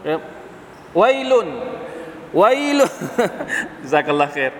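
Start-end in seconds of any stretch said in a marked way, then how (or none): 1.0-2.9 calling out. Acted. Preacher proclaiming the verse's woe to listeners. 3.0-3.8 breathy laugh. Real, not acted. Laugh after the loud call.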